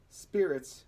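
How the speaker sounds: high, loud scornful spit of the word; spat scornfully. Acted. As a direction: Brandon scorning Marley, spat out. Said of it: "spat Brandon".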